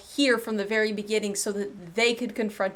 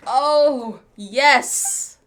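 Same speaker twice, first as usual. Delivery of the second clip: louder, thrilled "oh, yes"; excited cheer; 2 semitones higher, 7 dB louder than usual. Real, not acted. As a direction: cheer the win out loud. Cheering as the culprit is caught.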